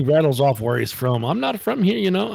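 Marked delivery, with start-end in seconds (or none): 1.2-2.3 very high mock Asian accent; thick Asian accent. Agent denying he is from Texas, high mock Asian accent. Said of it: "his accent was so thick".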